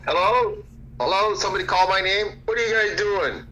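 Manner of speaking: high, bright hello into the room; high excited calling out. Real, not acted. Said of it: "entering room calling out".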